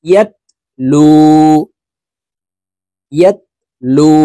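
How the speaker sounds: the লু held one alif long; long লু vowel, natural madd; one alif stretch. Shown as a demonstration. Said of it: "লাম জজমলা ওয়ার সাথে একালিপ টেনে পড়তে হবে".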